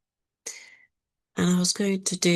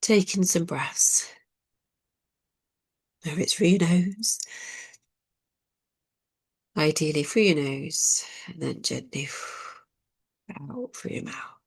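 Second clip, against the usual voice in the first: guided breathing meditation. Acted. Leading listeners to breathe through nose and mouth, guided meditation. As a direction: ease them gently through the breath, softening at the end.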